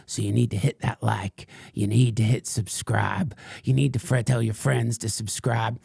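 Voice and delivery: lightly voiced crank ranting about the sun; a hint of a paranoid conspiracy ranter; Frank Blanders. Fringe podcaster rants to his followers, lightly put-on crank voice. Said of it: "what you just heard was, uh, um, Frank Blanders".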